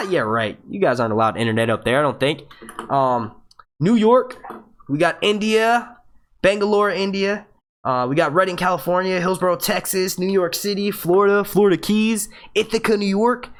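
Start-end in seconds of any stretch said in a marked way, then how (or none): 3.8-13.5 higher-pitched roll call; calling out places. Real, not acted. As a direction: announce each place in a lifted voice. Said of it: "Let me yell out some places".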